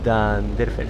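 "Danderfer" split carefully after DAN; careful sounding-out. Shown as a demonstration. Streamer checking a viewer's surname, careful "Danderfer" starting DAN. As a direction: read "Danderfer" piece by piece, DAN then derfer. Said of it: "estoy intentando leer el nombre".

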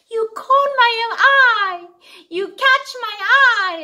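high, sweet, doting voice; cooing to a baby. Acted. Mom cooing adoringly at her cute child. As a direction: gush over the little one.

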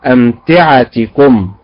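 أمتعتكم slow, stress on the right syllable; drawn-out correct أمتعتكم. Shown as a demonstration. Teacher slowly modelling the correct word. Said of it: "فهي أمتعتكم وليست".

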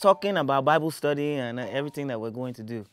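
lightly acted well-behaved kid answering mom; dutiful child on phone. On the phone to mom about Bible study, a touch dutiful. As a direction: reassure a parent over the phone. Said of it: "my mom's calling".

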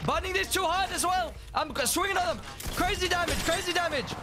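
high, fast hyped fight calls; excited callouts. Real, not acted. Gamer shouting callouts to squad mid-fight, excited. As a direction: call the fight like it's all going off.

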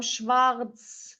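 "Schwarz" slowly stressed for learners; "Schwarz" drawn out with gentle emphasis; emphasized. Shown as a demonstration. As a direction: put a little emphasis on "Schwarz". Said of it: "Biraz vurgulayalım".

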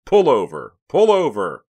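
loud, forceful command; officer shouting at a fleeing driver; shouted police order. A narrator's reading. Police loudspeaker order during car chase.

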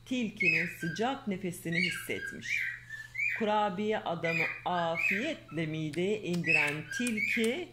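lively storybook reading voice; reading to children. Acted. Mother reading a fairy tale to her daughter, lively storyteller. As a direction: read the tale aloud to a little girl.

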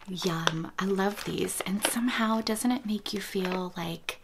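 breathy hush, as if close to the mic; ASMR whisper. Real, not acted. Whispering to viewers about baby gifts, ASMR whisper.

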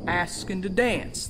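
ordinary talk

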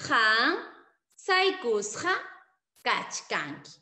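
Han saikusqa kachkanki repeated with pauses; spaced repeat. Shown as a demonstration. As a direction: say each word alone for the class.

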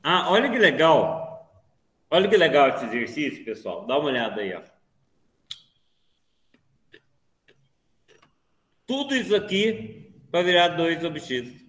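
talking with food in mouth; words around a bite of food; chewing while talking. Real, not acted. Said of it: "Vou comendo e falando com vocês".

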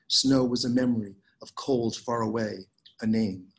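measured, unhurried poetry reading with lingering pauses; poem reading. Acted. Poet reading her work to a Zoom audience, measured poem reading. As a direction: let each image settle before the next. Reads the five poems.

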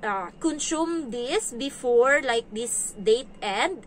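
slow, piece-by-piece explanation; explaining to a child. Retold or imitated. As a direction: spell it out slowly for a small kid. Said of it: "Sinasabi ko sa kanya".

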